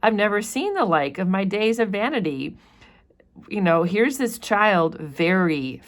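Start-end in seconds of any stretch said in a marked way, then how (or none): 0.0-2.6 a hint of an astonished old governor, pitched higher; teacher lightly voicing the governor; lightly voiced surprised governor. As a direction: read it as a startled official spotting the child. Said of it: "He's like".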